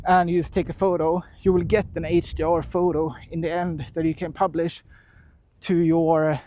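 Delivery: winded, gasping between phrases; out of breath. Real, not acted. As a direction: talk while out of breath from walking. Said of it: "Sorry for the out of breath".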